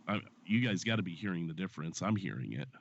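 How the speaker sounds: stuffed-up voice from a cold; stuffy nose. Real, not acted. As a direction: talk through a blocked nose. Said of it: "You just sound like you have a cold to me".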